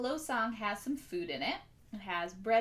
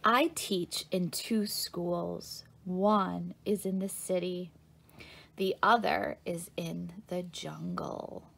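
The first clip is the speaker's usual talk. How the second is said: slow, measured picture-book reading; reading to children; 2 semitones lower, slower than usual. A narrator's reading. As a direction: read it slowly for small listeners.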